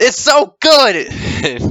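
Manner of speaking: mock very high, sing-song, swooping kid's holler. Retelling a boy answering his mom: imitating a boy shouting. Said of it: "the boys just shouts".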